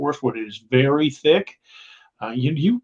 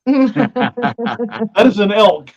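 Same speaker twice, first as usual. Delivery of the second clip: high, slow, drawn-out spelling-out; exasperated; 8 semitones higher, 4 dB louder, much slower than usual. Retold or imitated. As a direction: spell it out slowly for idiots. Retold exasperated telling-off, amused.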